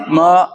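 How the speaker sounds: म said short, without drawing it out; short, unstretched म; quick short vowel. Shown as a demonstration. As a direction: keep म brief, no stretch and no jolt. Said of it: "जल्दी पढ़ेंगे".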